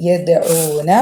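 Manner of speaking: യദ്ഊന with the d bounced; qalqalah echo. Shown as a demonstration. Teacher showing qalqalah on dal, echoed d. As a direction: make the d in യദ്ഊന ring before the long u. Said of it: "മുഴക്കിയിട്ട് pronounce ചെയ്യുക".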